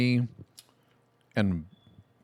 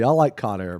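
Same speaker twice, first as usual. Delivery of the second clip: usual speaking voice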